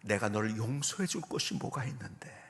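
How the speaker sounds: low, understated retold tearful reply; tearful mother. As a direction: gently imitate a mother answering through tears. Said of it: "우시면서".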